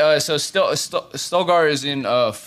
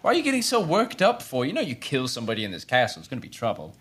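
Ren warning fast; 4 dB quieter, faster than usual. Acted. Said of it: "He says".

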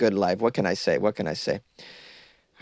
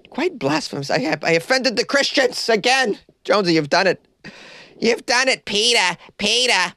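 mock high voice; 10 semitones higher than usual. Mock voice after blasphemy joke.

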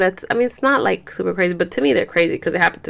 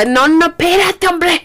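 firm no; 8 semitones higher than usual. Real, not acted. Stopping the baby.

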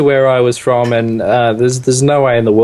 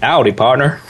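American cowboy accent. Shown as a demonstration. Guest asked for an American accent, cowboy howdy. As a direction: give a lightly voiced cowboy greeting. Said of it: "give us a howdy, partner".

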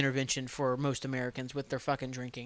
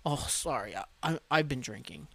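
put-on drunk's excuse; 5 dB quieter than usual. Drunk person excusing horrible behavior, lightly mocked apology. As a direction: imitate a drunk's lame, stumbling apology. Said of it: "use that as their excuse".

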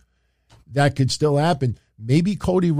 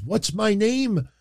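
high, drawn-out mock demand; mock yell; 7 semitones higher, slower than usual. Angry wrestler demanding his rival name him, mock yelling. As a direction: imitate a pissed wrestler's yell without full volume. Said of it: "he starts yelling at Kevin Owens".

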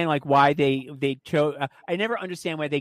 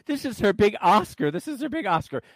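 higher-pitched mock fan hype; imitating adoring fans; 5 semitones higher than usual. Host mocking a pop singer's fans, imitated gushing. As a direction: gush it like a devoted fan, lightly. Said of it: "the little monsters are like".

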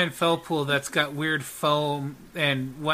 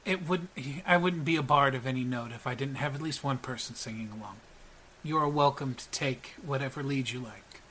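soft, slightly lowered bard voice; gracious bard; 7 dB quieter than usual. Acted. Gideon welcoming a fellow performer to lead, soft gracious reply. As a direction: accept the offer softly and courteously.

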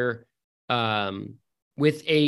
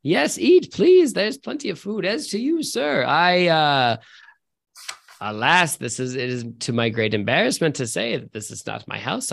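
friendly host. Acted. NPC host welcoming the party.

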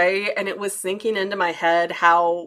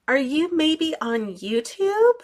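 put-on hopeful girl asking; 7 semitones higher, slower than usual. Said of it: "she was like".

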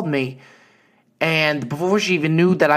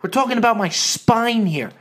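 higher mock-indignant dad; lightly voiced huffy father; dad's protest; 4 semitones higher than usual. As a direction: insist on his spine against his wife. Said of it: "He goes".

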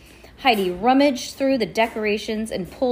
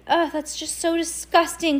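cried out; 8 semitones higher than usual. A narrator's reading. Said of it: "cried Melanie".

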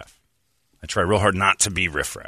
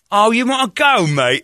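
loud, high mock taunt; a loud, raised-pitch imitated crowd taunt; mock challenge; 13 semitones higher, 8 dB louder than usual. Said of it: "the whole crowd goes".

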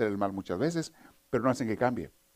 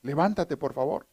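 higher, coaxing mother calling through the door; mother waking son; 4 semitones higher than usual. Retold or imitated. Joke mother calls her son to get up, pleading mother. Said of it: "llegó la mamá a tocar".

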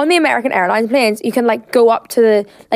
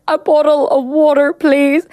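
higher, pointed polite request; exasperated plea, pitched up; exasperated repeat; 5 semitones higher, slower than usual. Retold or imitated. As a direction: act out repeating yourself to someone who won't understand. Acting out her fifth repeated request.

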